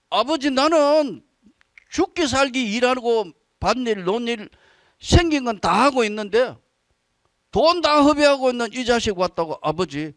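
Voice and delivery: lightly acted grievance, rising on the last line; angry elder son. Elder son protesting to his father, mildly mock angry. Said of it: "막 화내니까".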